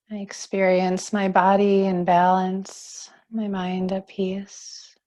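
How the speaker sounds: calm, unhurried yoga teacher voice; guided relaxation. Acted. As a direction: guide them gently into settling and breathing.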